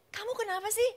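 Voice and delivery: wife yelling at the reckless driver; retold shout. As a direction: snap at him in the speeding car. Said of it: "Saya bilang gitu".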